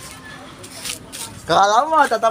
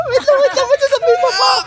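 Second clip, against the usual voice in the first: laughing while talking. Real, not acted. Laughing, high pitched.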